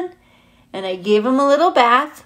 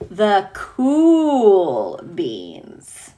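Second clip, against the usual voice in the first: cool swagger; 3 dB louder, much slower than usual. Pretend. Reading cool beans with swagger.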